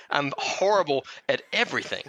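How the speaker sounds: high giggles around a self-mocking line; real laughter. Real, not acted. Cohost laughing at his own confession, high giggles. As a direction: laugh it out at yourself. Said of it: "laughing at himself".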